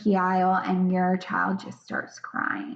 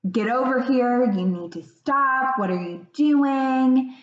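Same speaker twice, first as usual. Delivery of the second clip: mildly acted scolding, pitched up; reactive scolding; 5 semitones higher than usual. Parent to child acting up in public, mock scolding. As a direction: play a parent reacting on impulse, lightly cross. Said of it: "in more of a downstairs brain".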